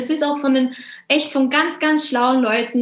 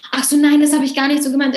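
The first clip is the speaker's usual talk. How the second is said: raised, louder flustered protest; mock shocked denial; 3 semitones higher, 4 dB louder, faster than usual. Caught-out person denying what they meant, mock shocked. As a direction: blurt a startled excuse, pitched up. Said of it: "dieser schockierte".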